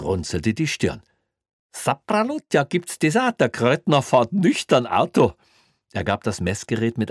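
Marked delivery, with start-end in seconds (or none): 1.7-5.3 high, loud mocking surprise; mock astonishment. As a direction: ham up the disbelief. Mocking amazed cop.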